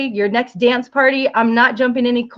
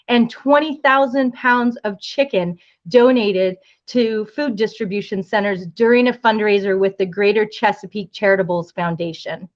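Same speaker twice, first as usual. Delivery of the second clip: running out of breath on a long list; breathless after a long list. Real, not acted. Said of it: "I'm out of breath".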